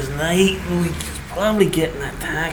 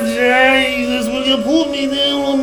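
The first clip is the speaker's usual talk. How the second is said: panicked begging; 3 semitones higher than usual. Acted. Man dangled in the air begs to be put down, panicked. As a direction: plead frantically for release.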